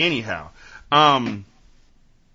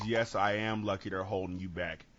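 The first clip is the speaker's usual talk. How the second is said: put-on cool-headed kid; 7 dB quieter than usual. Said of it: "The other kid says".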